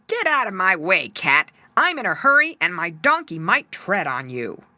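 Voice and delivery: loud, hurried man barking orders; loud, impatient donkey driver; impatient shout. Acted. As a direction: shove the cat aside with your voice.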